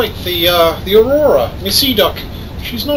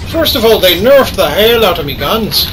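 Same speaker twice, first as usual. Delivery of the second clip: excited Irish accent; excited gamer; 4 semitones higher than usual. Real, not acted. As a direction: crow about a near miss in Irish. Excited gamer dodging ships in combat.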